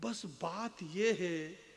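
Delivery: slow verse swelling, then dropping at the close; poetry recitation. Acted. Poet building to the brother's lost pride, paced dramatic recitation. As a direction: stretch phrases with dramatic pauses.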